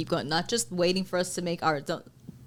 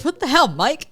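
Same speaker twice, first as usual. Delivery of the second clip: loud, higher-pitched playful protest; mock outrage; 8 semitones higher, 9 dB louder than usual. Crew member jokingly confronting Mike over stealing, mock outrage. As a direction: call him out in mock indignation.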